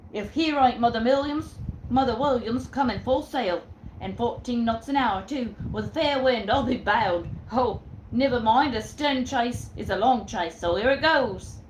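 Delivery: loud, hearty seaman's voice; old sailor. Acted. Jack spotting Mother Williams in chase, loud sailor voice. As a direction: boom it like an old tar. Jack's sailor speech, acted.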